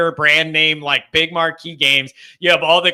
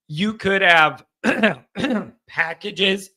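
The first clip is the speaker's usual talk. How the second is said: slow, words catching in the throat; slower than usual. Real, not acted. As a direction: push through a tickle in the throat. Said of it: "I'm choking myself up".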